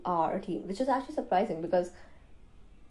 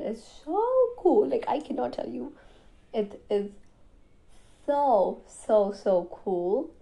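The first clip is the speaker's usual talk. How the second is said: excited gushing; 3 semitones higher, 4 dB louder, slower than usual. Real, not acted. Gushing about exciting news.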